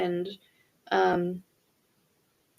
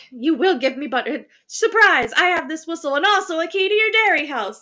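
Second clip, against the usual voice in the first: demanding cat voice; 8 semitones higher, 6 dB louder than usual. Retold or imitated. Voicing demanding cat in story.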